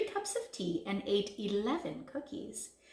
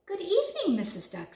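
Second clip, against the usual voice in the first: courteous greeting, high at the start; polite greeting; 9 semitones higher, 7 dB louder, faster than usual. A narrator's reading. Big Bad Wolf to Missus Duck, polite greeting. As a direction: greet her with a polite bow. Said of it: "bowing politely".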